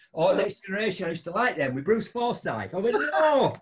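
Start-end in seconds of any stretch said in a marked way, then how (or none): 3.0-3.6 blunt no. Retold or imitated. Blunt refusal retold.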